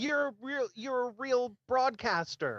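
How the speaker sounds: high, shouted touchdown cheer; mock triumphant cheer. Co-host mocking a clumsy segue with a high touchdown cheer. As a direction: cheer him on like a sportscaster.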